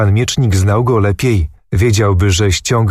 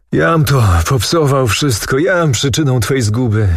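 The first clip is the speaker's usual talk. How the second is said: despairing cry; 4 semitones higher than usual. A narrator's reading. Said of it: "zakrzyknął".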